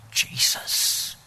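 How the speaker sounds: hushed, unvoiced whisper. Shaken young woman facing an armed intruder, whisper. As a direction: barely let the word out, whispering. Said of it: "you know, just a whisper".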